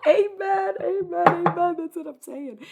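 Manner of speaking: high, loud gleeful amens; excited amen. Real, not acted. Streamer cheering a chatter's joke, high gleeful amens.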